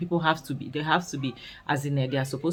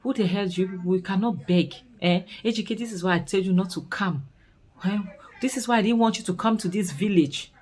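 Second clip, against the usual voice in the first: higher, fast indignant outburst; mock angry rant; 5 semitones higher, faster than usual. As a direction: scold them for begging, fed up. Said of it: "Dan is there saying that".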